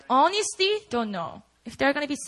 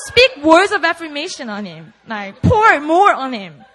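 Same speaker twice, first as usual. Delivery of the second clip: laughing through it; 2 semitones higher, 9 dB louder than usual. Retold or imitated. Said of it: "God was like".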